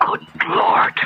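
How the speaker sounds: breathless whispered shock; hushed dread at what he sees. Acted. Professor shocked by the paper.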